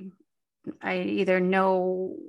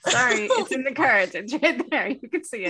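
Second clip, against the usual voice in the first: mock doom reader; 5 semitones higher, 4 dB louder than usual. Mock doom fortune teller.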